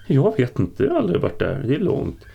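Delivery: high, loud frightened answer; scared thrall pleading; panicky. A narrator's reading. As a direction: blurt it out in a panic.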